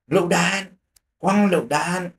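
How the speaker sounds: shouting. Retold or imitated. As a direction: yell the order to the troops. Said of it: "thét lớn".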